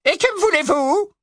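high, cold and scornful. Acted. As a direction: look down your nose at him. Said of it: "avec autant de mépris qu'elle le pouvait".

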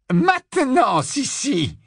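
Bellatrix, high and falsely soft; high, sugary witch voice. A narrator's reading. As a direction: purr her sister's name, menacingly sweet. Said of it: "dit Bellatrix d'une voix douce".

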